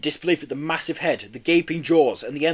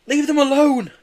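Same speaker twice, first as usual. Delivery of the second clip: high, loud desperate plea; desperate begging; 14 semitones higher, 8 dB louder than usual. A narrator's reading. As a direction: beg with everything. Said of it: "begged Joe".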